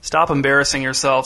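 understated, level and unmoved; flat voice. Acted. Dad coldly dismissing the crying woman, flat and level. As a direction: say it as if she bores you. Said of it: "in a flat voice".

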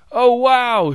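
very high, loud wonder; amazed shout. A narrator's reading. Another spectator across the tent, amazed shout. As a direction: gasp it out in awe. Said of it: "shouted another".

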